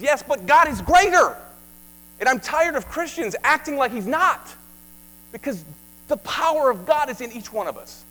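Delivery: high, loud, driving conviction; impassioned preaching. Acted. Preacher pleading with Christians to stop fearing, loud and high. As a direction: preach it with fire.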